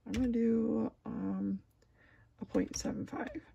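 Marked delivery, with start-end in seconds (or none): 2.4-3.4 talking through hiccups; words broken by a hiccup. Real, not acted. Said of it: "I got the hiccups".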